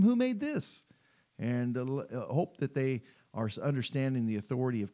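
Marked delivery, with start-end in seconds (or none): 0.0-0.8 put-on much higher, bright quizzing voice to a child; asking a child. Parent holding up a picture for children, playful high question. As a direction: lift way up like quizzing a little kid. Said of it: "and you can ask them".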